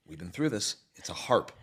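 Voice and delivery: a tired good guy, low and quiet; weary good guy. Retold or imitated. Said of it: "the guy goes".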